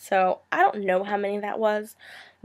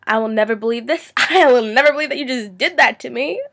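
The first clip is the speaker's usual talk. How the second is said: louder mocking echo with a laugh; sarcastic mock disbelief; 2 semitones higher, 6 dB louder than usual. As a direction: throw their line back at them, laughing. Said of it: "you take a step back, like".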